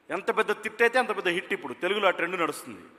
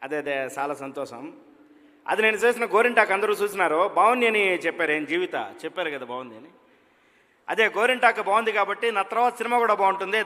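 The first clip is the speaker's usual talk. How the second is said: a fair take on Rajasekhar's own undubbed voice, drawling; Rajasekhar impression. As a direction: speak like the actor without his dubbing artist. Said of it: "ఏమన్నా మాట్లాడమంటే ఏం మాట్లాడుతున్నారో చూద్దాం".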